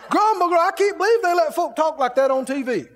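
a sour viewer complaining; mock grumbling. Imitating TV watcher.

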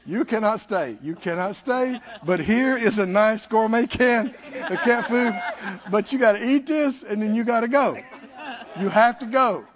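talking to the kitty. Retold or imitated. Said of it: "you say".

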